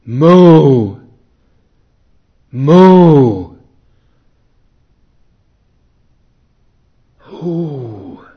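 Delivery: high, loud drawn-out call; long calling out. Acted. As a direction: call across into the silence. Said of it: "whether he was calling her".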